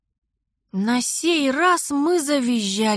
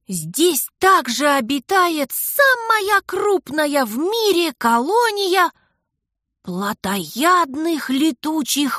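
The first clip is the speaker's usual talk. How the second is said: dramatic reading; 4 semitones higher, slower than usual. Acted. Brother dramatically reads guidebook.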